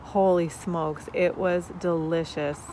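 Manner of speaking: slow and loud, savoring it; delighted. Real, not acted. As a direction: rave about the taste. Raving about her homemade pesto.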